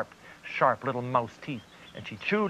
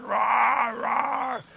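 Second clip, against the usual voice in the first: higher, louder trapped roaring; desperate lion roars; 7 semitones higher than usual. Acted. Trapped lion roaring for anyone to hear. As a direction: roar for help as loud as possible. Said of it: "roaring as loud as he could".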